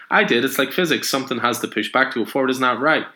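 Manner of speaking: put-on high, eager child's questions; little girl. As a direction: pester him like a curious kid. Little girl explains to Superman.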